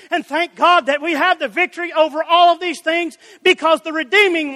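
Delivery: insistent rhetorical sermon questions and answers; fervent preaching. Real, not acted. Preacher explaining Paul's victory to church, insistent preaching. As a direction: drive the argument toward its climax.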